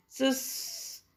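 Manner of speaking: drawn-out "sss" to hush someone; a finger-on-lips shush; shushing hiss. Acted. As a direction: cut the sentence off with a shush. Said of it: "मुंह पर उंगली रखकर".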